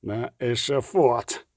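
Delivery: slow, mumbling, a man half knocked out; slurred mumble. Acted. A beaten spy slurs the threat at Geralt, slow and mumbled. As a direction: drag out "На ешафот" thickly and slowly. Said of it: "пробелькотів Дікстра".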